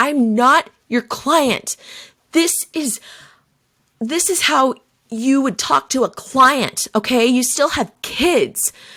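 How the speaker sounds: angry, pissed-off, drawn-out yell. Parent acts out their kid's angry reply to them, imitating her yelling. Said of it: "And she's yelling".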